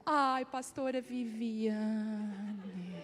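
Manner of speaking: very slow, drawn-out cooing concern; imitated fussing sympathy. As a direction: mimic an over-sympathetic nurse, stretching every word. Imitated nurse fussing over crying pastor. (enfermeira imitada, com pena arrastada)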